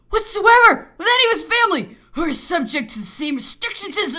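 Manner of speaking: loud, high angry tirade; furious outburst. A narrator's reading. Governor bursting out at the officer over Napoleon's household, furious. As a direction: burst out, hammering every phrase. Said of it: "he burst out with".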